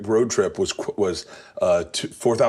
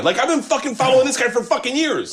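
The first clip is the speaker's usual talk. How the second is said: excited fan boast. Retold or imitated.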